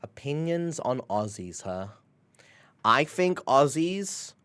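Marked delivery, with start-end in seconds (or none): 0.0-1.9 whispered, unvoiced; whispering. Real, not acted. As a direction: breathe the words like a secret. Reading chat question.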